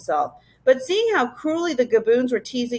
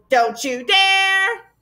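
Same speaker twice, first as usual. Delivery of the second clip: much higher, very slow shriek; frenzied shriek; 10 semitones higher, much slower than usual. Acted. Gaboons in a frenzy at the arch, a very slow high shriek. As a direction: stretch it into a high frantic wail. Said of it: "the Gaboons were in a frenzy".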